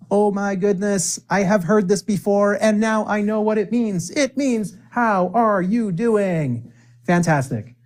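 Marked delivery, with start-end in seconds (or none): 0.1-6.7 excited student. Retold or imitated. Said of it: "You're like".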